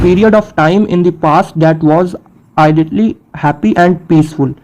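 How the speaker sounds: slow, careful definition read aloud; deliberate teacher's dictation pace. Shown as a demonstration. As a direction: read each English word out slowly for students. Reads definitions slowly.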